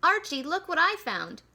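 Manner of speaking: put-on boy shouting through a pipe to his friend; shouted call. A narrator's reading. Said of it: "Peter shouted through the pipe".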